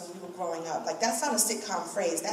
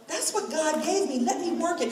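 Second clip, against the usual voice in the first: self-hype; 7 semitones higher than usual. Retold or imitated. Talking to herself in the mirror.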